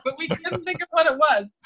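words breaking into laughter; real giggle while telling; laughing. Real, not acted. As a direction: laugh through the line.

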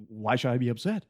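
imitating Hoffman's fussy complaint, laughing; a hammed-up whiny Raymond, breaking into laughs; mock Hoffman whine. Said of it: "He's like".

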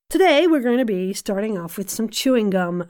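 put-on, shaky attempt at American; bad American accent. Voice coach opening a session on chewing gum, bad American accent. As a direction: try a cheesy American accent. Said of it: "I apologise for my American accent".

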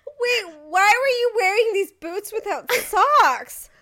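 imitating the guard's disbelief; mock guard. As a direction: play the baffled guard. Voicing the guard's disgust.

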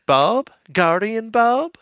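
high, drawn-out surprised Bob. Retold or imitated. Mouse spotting Bob, high and surprised. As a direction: act out Mouse's shock at seeing him.

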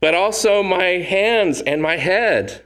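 imitating overeager Peter, lightly voiced; eager overcorrection. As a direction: throw yourself all in, overeager. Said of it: "That was Peter".

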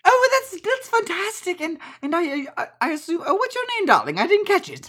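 very high, fluttery auntie voice; delighted auntie. Acted. Auntie asking the guest's name, high delighted voice.

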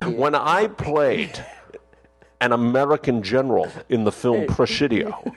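lightly voiced Connery reminiscing; Sean Connery impression. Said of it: "that was Sean Connery".

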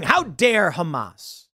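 slow, mock-indignant quote of the right; mock indignation. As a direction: drag out "How dare Hamas?" like an offended pundit. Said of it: "The right saying".

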